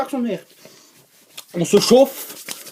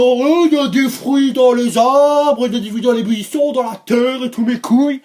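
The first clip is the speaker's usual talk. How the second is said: loud, high singsong recitation; stretched, hammed-up reading of an imagined text; mock quoted text; 5 semitones higher, 5 dB louder than usual. Quoting a supposed old text, loud and mocking. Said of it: "un texte, disant".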